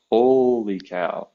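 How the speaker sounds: slow, drawn-out amazement; awed realization. Retold or imitated. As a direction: stretch it out in retold wonder. Retold big moment of realization.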